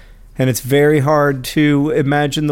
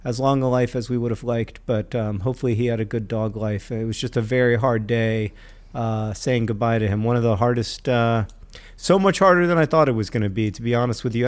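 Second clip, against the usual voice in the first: sad; 4 semitones lower, 4 dB quieter than usual. Real, not acted. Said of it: "I am very sad".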